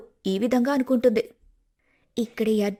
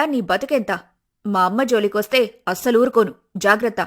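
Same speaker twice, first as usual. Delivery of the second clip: angry sister; 2 semitones lower than usual. Acted. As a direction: threaten her, defending your mother. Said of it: "Shivani కోపంతో".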